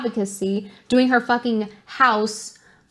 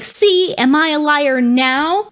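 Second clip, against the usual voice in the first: mock indignant taunt; 3 semitones higher, 4 dB louder, slower than usual. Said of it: "she posts that as if".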